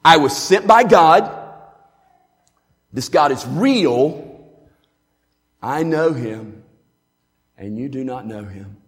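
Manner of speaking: a lifted-voice sermon in four points. Shown as a demonstration. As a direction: proclaim each point, then let it fall. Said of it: "Now that's the four-point sermon right there".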